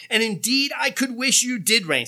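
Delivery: high, loud mock wish; sarcastic wishing. Preacher voices Paul doubting the Corinthians, sarcastic. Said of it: "his way of saying, "Yeah, right".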